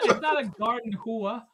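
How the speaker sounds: "hua" stretched into two syllables, amused; mock the word "hua" as hoo-uh, half laughing; mimicked mispronunciation. Host teasing friend's word, "hua" said as hoo-uh. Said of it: "He said a garden hua".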